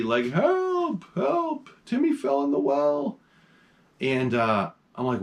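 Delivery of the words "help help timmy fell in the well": high mock cry for help as a dog; Lassie pleading. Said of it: "like Lassie".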